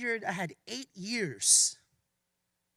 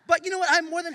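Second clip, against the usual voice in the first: laughing; 9 semitones higher, 11 dB louder, much faster than usual. Real, not acted. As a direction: laugh through it, voice jumping up. Laughing as he turns the point.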